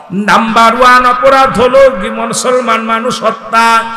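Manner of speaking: chanted list of sins to the crowd; preaching at full force. Acted.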